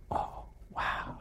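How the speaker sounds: breathy whispered oh wow; a mock gasp of astonishment, barely voiced; mock shocked whisper. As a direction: pretend to be scandalised, in a hushed whisper.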